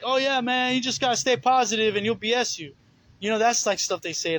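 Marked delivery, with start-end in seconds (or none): 0.0-2.7 higher, breezy mock of shallow believers; lightly voiced carefree churchgoer; mock positive talk. Mocking the shallow believers, a carefree airy voice. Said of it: "they just feel like".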